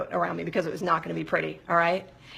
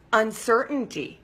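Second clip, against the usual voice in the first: usual speaking voice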